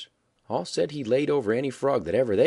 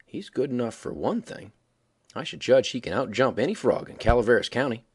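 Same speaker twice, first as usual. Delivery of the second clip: easy and careless. Acted. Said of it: "easy and careless".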